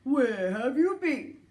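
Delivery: slow, loud elf call. Acted. Elf calling reindeer.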